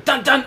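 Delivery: two punched notes, "dun, dun"; short mock suspense jingle; dramatic sting. Shown as a demonstration. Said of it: "or there's gonna be".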